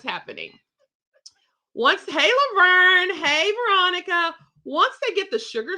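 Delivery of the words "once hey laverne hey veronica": cheerful greeting. Real, not acted. Greeting viewers live.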